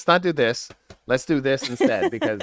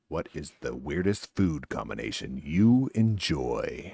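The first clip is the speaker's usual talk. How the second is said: slow, low, lower announcer read; 8 semitones lower, 7 dB quieter, slower than usual. Shown as a demonstration. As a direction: read it like a show host. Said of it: "let me try it again".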